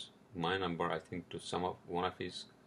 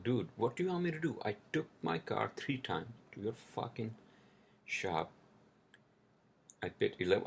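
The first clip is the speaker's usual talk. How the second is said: retold angry rant. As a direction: vent at the shop guy like you're still fuming. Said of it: "I was so pissed".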